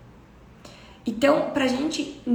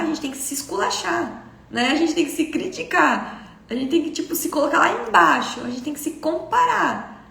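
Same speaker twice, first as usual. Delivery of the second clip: mock-insistent higher-pitched list; 4 semitones higher than usual. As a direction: lift and stretch "esculachar", "criticar", "comparar". Voicing the self-critical programme, listed.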